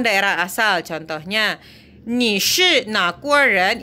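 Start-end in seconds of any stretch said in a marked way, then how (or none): 2.1-3.8 slow careful "Ni shi na guo ren?"; Mandarin model question. Shown as a demonstration. Teacher models the question "Ni shi na guo ren?". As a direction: lay out each syllable of "Ni shi na guo ren?". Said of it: "Ini nanyain negara".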